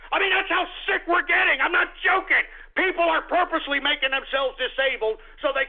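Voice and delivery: high-pitched, indignant emphasis; outraged. Acted. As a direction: voice jumps up in disbelief. Host outraged at trend.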